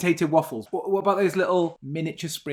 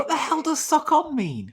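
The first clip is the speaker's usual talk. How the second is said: high-pitched baffled question; incredulous; 11 semitones higher than usual. Real, not acted. Co-host baffled by the phrase sock on, incredulous. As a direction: shoot up in pitch with disbelief.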